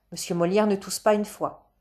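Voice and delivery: usual speaking voice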